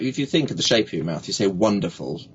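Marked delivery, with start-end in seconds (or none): 1.5-2.2 "wonderful" with a rounded W; lips-forward W. Shown as a demonstration. Coach shows mouth shape, round W in "wonderful". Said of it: "your lips come forward".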